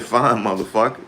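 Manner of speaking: Impression of a rapper. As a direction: throw it out like a defiant rapper. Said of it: "He said".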